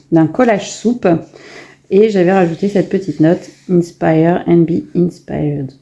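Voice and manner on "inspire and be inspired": slow, careful English with a French accent, self-mocking; a French speaker trying an English accent, slowly. Shown as a demonstration. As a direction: read the English words slowly in a half-hearted English accent. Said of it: "J'ai un, un excellent accent anglais, n'est-ce pas?".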